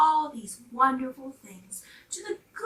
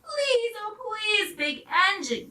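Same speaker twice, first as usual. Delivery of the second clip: high, crying plea; pleading toys; 10 semitones higher than usual. A narrator's reading. Dolls and toys beg the big engine, pleading. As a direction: beg with a break in the voice. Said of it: "cried all the dolls and toys together".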